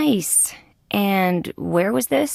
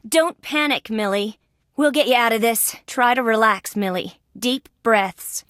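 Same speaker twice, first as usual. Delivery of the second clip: higher-pitched, calming someone in a panic; urgent reassurance; 4 semitones higher than usual. Acted. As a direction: talk them down from panic.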